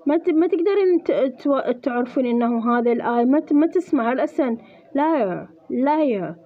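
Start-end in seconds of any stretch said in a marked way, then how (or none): 5.0-6.3 "liar" with the middle I sound barely heard; middle vowel swallowed. Shown as a demonstration. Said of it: "ما راح، ما راح تسمعين الآي".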